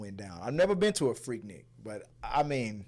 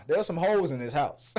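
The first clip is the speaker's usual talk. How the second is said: shouted lyric quote; 7 semitones higher than usual. Retold or imitated. Quoting raunchy lyrics, then laughing.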